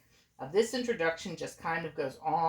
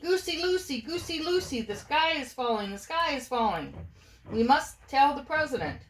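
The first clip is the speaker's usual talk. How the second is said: high, panicky bird voice; frantic yell; 8 semitones higher than usual. A narrator's reading. Birds alarm Goosey Lucy with a high yell. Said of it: "and yelled".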